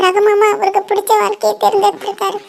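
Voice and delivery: high, choked voice on the edge of crying; girl alone at the wedding, crying over the groom she lost; tearful. Acted. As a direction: hold back tears while talking to yourself.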